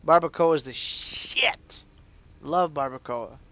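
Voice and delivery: slow breathy whisper. Real, not acted. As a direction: whisper it like a secret. Aside about barbacoa, whispered.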